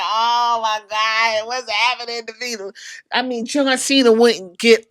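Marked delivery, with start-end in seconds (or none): 0.0-2.6 mock dazed groan. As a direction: play the dazed loser lightly. Cody beaten, voiced by teller.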